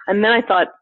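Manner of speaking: ordinary talk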